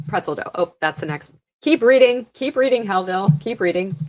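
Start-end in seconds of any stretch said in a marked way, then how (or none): 1.6-4.0 loud, high urging. Real, not acted. Streamer urging herself to keep reading chat, loud and high. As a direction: push yourself to keep going, loudly.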